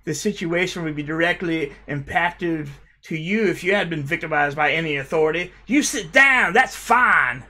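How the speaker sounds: hammed-up reading of a commenter's smug reply; mock reading of a comment. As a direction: read it out like a smug lecturer, ramping up at the end. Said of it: "This one's good".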